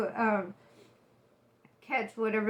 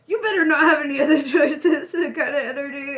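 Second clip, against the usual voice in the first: mock demanding; 3 semitones higher, 8 dB louder than usual. Mock demanding partner, laughing.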